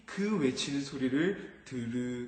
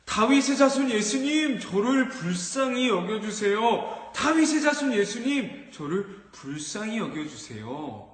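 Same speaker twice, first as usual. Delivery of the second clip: pleading call to Jesus, raised and higher; crying out; 5 semitones higher, 3 dB louder than usual. Acted. Blind beggar crying out to Jesus for mercy, raised plea. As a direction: cry out for mercy. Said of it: "막 소리치기 시작했어요".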